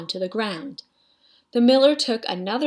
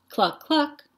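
higher clucking hen sounds; fussy clucking hen; 6 semitones higher than usual. A narrator's reading. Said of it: "Then she said".

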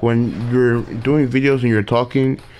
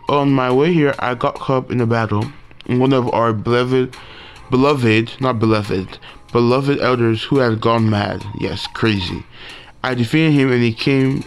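reading game dialogue. Acted. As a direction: read the characters' lines with a little acting. Reads game dialogue aloud.

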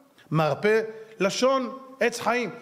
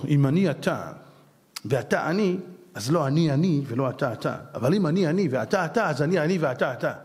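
rattled off as a tongue-twister; quick run-together saying; garbled recitation; 9 semitones lower than usual. Shown as a demonstration. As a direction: rush the riddle so it sounds like gibberish. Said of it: "שוואדה, זה נשמע אמהרית".

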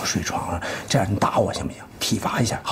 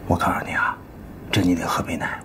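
hushed, wheedling coax; soft coaxing; 3 semitones lower, 7 dB quieter than usual. Acted. Husband coaxing his sulking wife, hushed coaxing. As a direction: coax her gently, half whispered.

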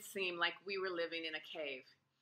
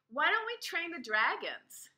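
higher, eager pitch; eager idea; 9 semitones higher than usual. A narrator's reading. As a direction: blurt out a bright idea. Ada's eager sudden proposal.

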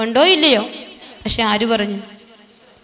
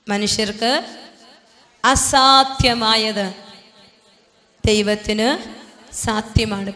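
slow recitation; slower than usual. Shown as a demonstration. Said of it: "പറഞ്ഞേ".

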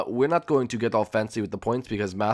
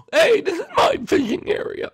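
indignant yell; 4 dB louder than usual. Acted. Indignant shout.

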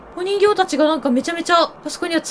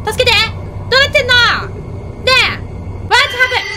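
panicked cries; 8 semitones higher than usual. Real, not acted. Swallowed by darkness, calling to viewers in panic. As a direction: cry out for help.

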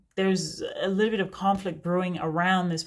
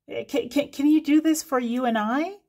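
mock-fancy higher voice asking a favor; mocking wrong grammar; 6 semitones higher than usual. Mocking a pretentious grammar mistake. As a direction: ham up someone's wrong grammar. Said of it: "you should always say".

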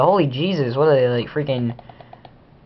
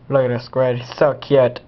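put-on silly cooing over a pet; silly talk. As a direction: say it in a goofy, cutesy way. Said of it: "Why do I keep talking like that?".

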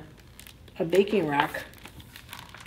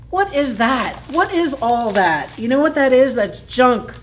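alarmed fish voice; 4 semitones higher, 6 dB louder than usual. Pretend.

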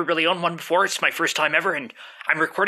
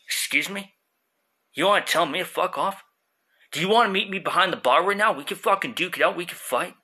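arguing with myself. Acted. Stoned voice challenges.

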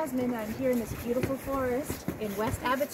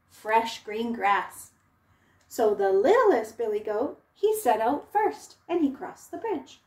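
lively storybook narration; reading to children; 4 dB louder than usual. A narrator's reading. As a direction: tell it to little ones, expressive.

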